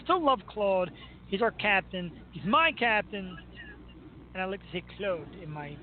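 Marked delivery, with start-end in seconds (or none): 5.0-5.2 lightly put-on Canadian accent; a touch of bad Canadian accent; horrible Canadian accent. Shown as a demonstration. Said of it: "horrible Canadian accent".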